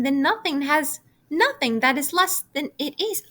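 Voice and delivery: a little pig working himself up over nothing; a hint of an earnest, puzzled piglet; puzzled pig arguing. Wilbur arguing in story.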